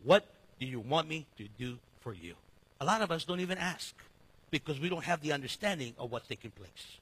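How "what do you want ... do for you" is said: low, soft, tender question; quiet, lower gentle Jesus voice. Acted. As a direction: ask it softly like a caring Jesus. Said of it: "Jesus wanted to hear".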